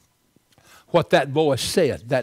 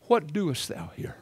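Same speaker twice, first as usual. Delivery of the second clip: same question, softer and hushed; God asking Elijah again, a quieter take; God's question, second time; 7 dB quieter than usual. Retold or imitated. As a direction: ask it again, gently and quietly. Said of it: "Second time".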